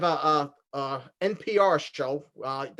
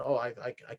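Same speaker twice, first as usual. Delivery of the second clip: a mild imitation of a soft, proper host voice; lightly hushed, keep it dead serious; deadpan hush; 4 semitones lower, 5 dB quieter than usual. Retelling the woman on the radio skit, a soft deadpan hush. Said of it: "but, but they're whispering it".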